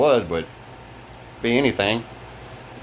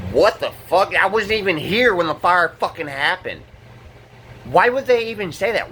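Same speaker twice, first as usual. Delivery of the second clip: higher, indignant disbelief; stunned that anyone would accuse him; indignant outrage; 5 semitones higher than usual. Real, not acted.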